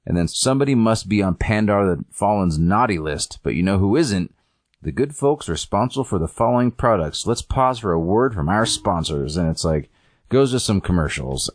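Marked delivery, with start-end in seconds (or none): 0.3-9.4 lightly voiced lilting TV presenter; smooth mock lead-in to the sponsors; show host. Host hands over to sponsors, light presenter lilt. Host leads into commercial break.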